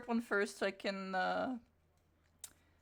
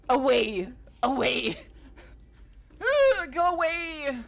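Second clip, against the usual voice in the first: shouting away; 4 semitones higher, 8 dB louder, slower than usual. Real, not acted. Shooing away the cringe.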